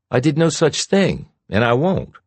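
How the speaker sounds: high, sharp denial; indignant denial. Acted. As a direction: fire back in outrage. Shauna denies indignantly.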